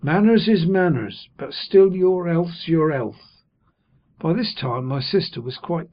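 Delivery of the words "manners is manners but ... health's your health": earnest Joe. A narrator's reading. Joe fretting over Pip.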